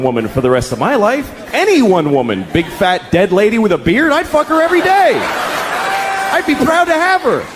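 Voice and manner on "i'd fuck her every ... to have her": higher voice, earnest bragging tone; hammed-up pride; mock proud boast. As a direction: say it like a proud suitor.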